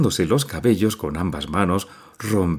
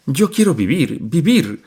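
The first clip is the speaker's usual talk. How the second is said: higher and louder, repeating with force; passionate cry; 8 semitones higher, 4 dB louder than usual. A narrator's reading. Mother crying out her wish to live. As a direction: beat the chest and insist. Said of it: "repitió golpeándose el pecho".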